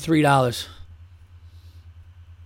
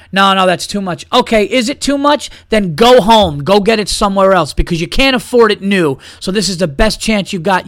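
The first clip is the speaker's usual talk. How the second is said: louder, higher mock scolding of a haggler; stern tirade; 4 semitones higher, 4 dB louder than usual. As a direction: tell the cheapskate off, a bit hammed-up. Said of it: "you gotta be stern with these people".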